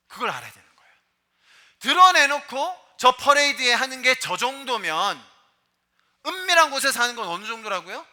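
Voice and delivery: loud, rising sermon warning; fiery preaching. Acted. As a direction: preach it hard to the congregation. Preaching at full force.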